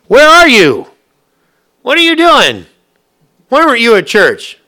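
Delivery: high, loud nosy church lady; mock scolding. Churchgoers hounding a no-show member, loud mock scolding. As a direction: bark the questions like a busybody.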